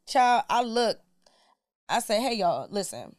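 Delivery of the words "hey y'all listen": calm, not yelling. Shown as a demonstration. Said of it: "I'm talking just like this. I'm not yelling".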